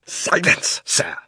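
high-pitched affronted order; stern command. A narrator's reading. Uncle silences his insolent nephew, stern. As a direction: cut the boy off with authority. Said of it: "bringing his hand down on the table".

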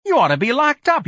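very high, loud jeer; yelling insult. A narrator's reading. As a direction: shout him down.

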